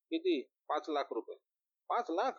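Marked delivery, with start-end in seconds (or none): 0.1-0.4 much higher, quick question; sharp surprise. Acted. Friend asks how much. 1.9-2.3 lakh rising high in disbelief; surprised echo. Acted. Friend echoes sum in shock.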